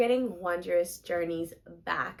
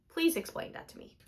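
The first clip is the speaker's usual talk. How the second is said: whispered plea; 7 semitones higher, 7 dB quieter than usual. Real, not acted. Begging viewers, whispered.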